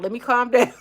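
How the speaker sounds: breaking into laughter mid-phrase; laughing at herself for getting worked up. Real, not acted. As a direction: laugh through it at your own heat.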